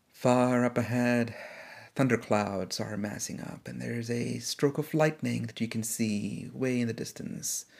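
calm, unhurried storyteller voice; story narration. A narrator's reading. Podcast host narrating a quarantine story, steady and calm. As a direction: draw the listener into the scene.

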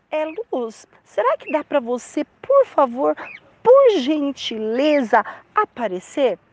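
hammed-up hesitant request, drawing out "por gentileza"; mock polite plea. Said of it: "Ele não falou assim". (pedido educado, fingido e hesitante)

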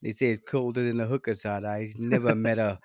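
lightly put-on Italian gangster voice; mock mobster accent. Bragging to his friend in mobster character. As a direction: brag like a cartoon wiseguy. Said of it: "Yo, your accent just".

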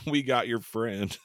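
slow, drawn-out mock threat; mock-ominous note. Reading out the note left for the friends, mock-ominous. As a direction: read it out slowly, spacing the words.

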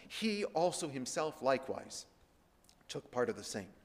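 "He also himself likewise" weighted, then a pause; emphatic repeat. Shown as a demonstration. Preacher repeating the verse to show its importance, emphatic. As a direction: stress "He", then let "took part of the same" drop away. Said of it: "how much emphasis".

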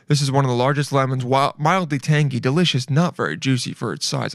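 lightly put-on hostess reading, each phrase savored; imitating Martha Stewart. Reading a lemon post like its author, light imitation. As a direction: read it lightly in another woman's measured style. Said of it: "I'm trying to say it like her".

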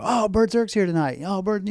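high, eager hello to the mascot; light up as if a star just walked in; excited greeting. Retold or imitated. Players greeting the mascot in the clubhouse, high excited voice. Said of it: "the players get excited about it".

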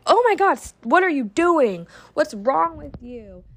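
starts very high and shocked, then settles into a scold; exasperated outburst. Retold or imitated. Mom reacting to her child's misbehaviour, shocked then scolding. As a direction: blurt it out in disbelief at the mess.

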